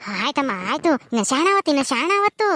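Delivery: gently calm the new mother; midwife voice. Acted. Midwife after delivery, soothing.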